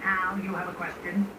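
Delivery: teacher frog. Pretend.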